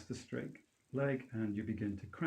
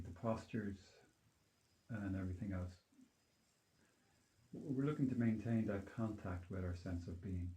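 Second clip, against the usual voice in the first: calm grounding exercise. Acted. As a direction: gently lead them back to their being. Leads a grounding meditation.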